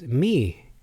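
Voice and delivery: "me" with a long ee vowel; pronounced mee. Shown as a demonstration. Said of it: "could be pronounced as".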